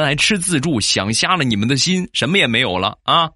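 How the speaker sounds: lightly acted scolding boss; boss's dressing-down. Boss berates staff in a meeting, mock scolding. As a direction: lecture the staff, starting high and easing into nagging. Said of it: "上边领导训话".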